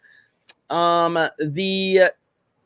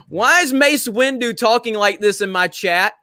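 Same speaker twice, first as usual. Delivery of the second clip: laughing question; 4 semitones higher than usual. Real, not acted. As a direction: question asked through a real laugh. Laughs at odd chat message.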